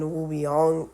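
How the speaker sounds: woobegone with the g dropped, WOO-bee-ONG; others' pronunciation. Retold or imitated. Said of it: "I've heard people say".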